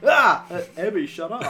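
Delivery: mock scream. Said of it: "You're just like".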